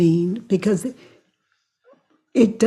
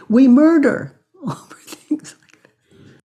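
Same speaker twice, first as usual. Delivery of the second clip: whispered with a laugh; 7 semitones higher, 4 dB louder than usual. Real, not acted. Telling the listener we murder over this, laughing whisper. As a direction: breathe it out through laughter.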